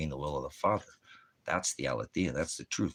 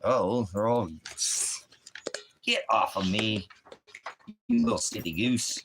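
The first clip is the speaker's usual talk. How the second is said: much higher, louder silly voice teasing the dogs; squeaky put-on voice for a pestering puppy; high mock voice to puppies; 9 semitones higher, 6 dB louder than usual. Owner teasing his puppies at four am, high silly voice.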